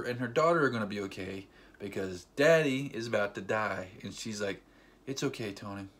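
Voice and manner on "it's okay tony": soft, low comforting words; hushed, understated farewell; tender reassurance. Retold or imitated. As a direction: gently imitate a wife soothing her dying husband. Retells wife comforting dying husband.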